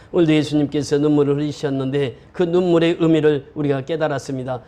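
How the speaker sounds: steady, even-toned closing prayer; formal pastoral prayer with little pitch movement. Real, not acted. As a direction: pray aloud for the congregation in measured phrases.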